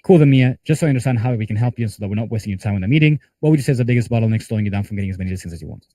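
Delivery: rushed, fast read with no pauses or emphasis; hurried, unmeant cold-call question; rattled-off bad example. Shown as a demonstration. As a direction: rattle it off like reading a script. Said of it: "that's a bad example of how you guys wanna say it".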